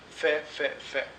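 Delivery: fait said three times, each fɛ, the final T silent; same pronunciation. Shown as a demonstration. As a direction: show that all three spellings of fait sound alike. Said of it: "les trois ici, pareil".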